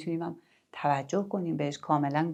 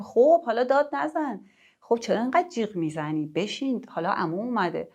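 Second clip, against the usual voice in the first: sharp, higher opening that settles; irritated scolding; 5 semitones higher than usual. Shown as a demonstration. Parent telling excited kids to stop yelling. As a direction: hush the excited kids, annoyed.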